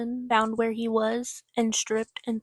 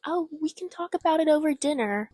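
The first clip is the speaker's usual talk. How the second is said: higher, airy mock-casual voice; mocking nonchalance; 6 semitones higher than usual. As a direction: shrug it off in a mocking voice. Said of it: "everyone's just like".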